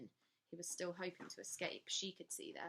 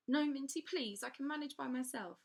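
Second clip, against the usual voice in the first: high, louder frantic plea; girl pleading with her governess not to come; 7 semitones higher, 7 dB louder than usual. Acted. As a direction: beg her to stay out of it.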